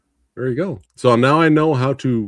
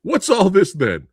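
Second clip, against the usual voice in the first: mock English copper in a hammed-up English accent; bad English accent; 6 semitones higher than usual. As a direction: play a cartoon English bobby badly. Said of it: "more English accent".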